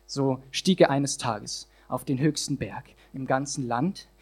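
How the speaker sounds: rhythmic rhyming performance; slam poem recitation. Acted. Poet performing his slam text to the audience, rhythmic. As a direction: drive the rhymes home for the crowd.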